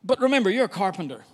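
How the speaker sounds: a hint of skeptical fishermen warning their teacher; fishermen doubting Jesus. Fishermen warning the carpenter about the sea, mildly incredulous. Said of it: "I can imagine them thinking".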